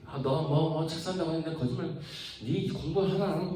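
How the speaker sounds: high-pitched mock nagging; nagging mother. Mother scolding child over the book lie, acted high nagging. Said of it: "막 이렇게 잔소리를 하겠지".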